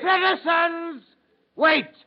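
loud, very slow drawn-out call, then a sharp "Wait!"; stretched call. Acted. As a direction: hold the crowd back. Accuser halts the release.

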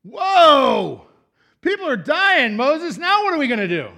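loud, high alarmed cry to Moses; panicked cry. Retold or imitated. Israelites crying out to Moses as people die, loud panic. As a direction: shout it like people are dropping around you. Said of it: "They're like".

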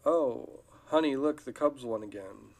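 husband calls out news to his wife, loud and eager; mock excited husband. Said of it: "the husband goes".

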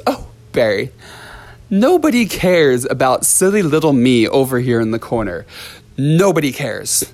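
imitating a self-pitying student, lightly voiced; a hint of a sulky pouting voice calling across the room; mock self-pity; mocking whiny student. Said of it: "shout across the room at me like that".

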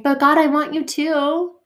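high, loud plea that settles down; pleading to God. Retold or imitated. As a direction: cry out to God, then calm. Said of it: "I'm like".

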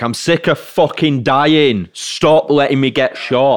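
whiny game character. Retold or imitated. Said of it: "all the characters in Call of Duty were like".

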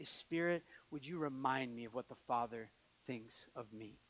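low, soft, private petition; hushed personal prayer; quiet morning prayer. Retold or imitated. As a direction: pray it gently, just to God. Re-enacting his morning prayer in bed.

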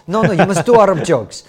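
insist, imitating a Middle Eastern accent; mock Middle Eastern insistence. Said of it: "I'm from Middle East".

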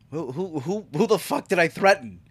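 stammering start rising into a sweary challenge; exaggerated disbelief. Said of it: "I didn't say it like that".

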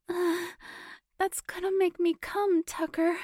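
high, loud, urgent cry; hissed. Acted. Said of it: "she hissed".

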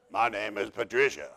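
chuckling while repeating the name; laughing through the quote. Retold or imitated. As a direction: repeat it, barely holding back a laugh. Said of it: "I'm telling you the truth".

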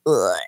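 low sick groan. Retold or imitated. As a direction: groan like you feel awful. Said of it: "you were like".

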